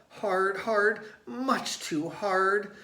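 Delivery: high, loud yell, slow at the end. A narrator's reading. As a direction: shout it, squashed. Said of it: "yelled Tate".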